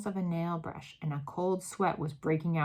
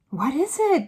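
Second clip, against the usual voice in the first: higher, louder alarmed cry; cried out; 8 semitones higher, 7 dB louder than usual. A narrator's reading. The other witches crying out in alarm. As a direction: ask sharply, worked up. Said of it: "the others cried".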